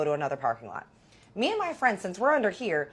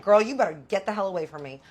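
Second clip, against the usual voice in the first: fast warning snap; 4 dB louder, faster than usual. Retold or imitated. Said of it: "I'm like".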